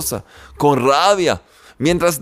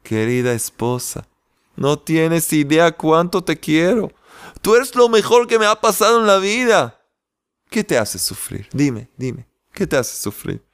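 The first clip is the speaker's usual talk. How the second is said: lovingly. Acted.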